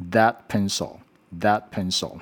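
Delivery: slow model of "that", tongue between the teeth for th; "that" with a voiced dental th; correct TH. Shown as a demonstration. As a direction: say "that pencil" as a slow teaching example. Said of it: "我们会念".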